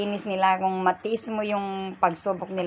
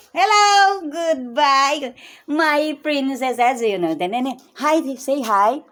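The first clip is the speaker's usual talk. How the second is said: much higher, louder, cooing hello to the little ones; sing-song greeting; 7 semitones higher, 7 dB louder, much slower than usual. Real, not acted. Grandmother greets her grandkids on camera in a high cooing voice. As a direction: call out sweetly to the princesses.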